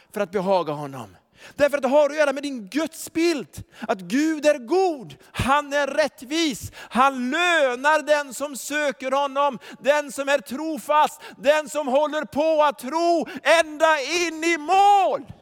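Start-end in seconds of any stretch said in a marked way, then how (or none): 3.8-15.3 slow, rising preacher's shout; preaching at full force. Acted. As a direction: build to a ringing shout.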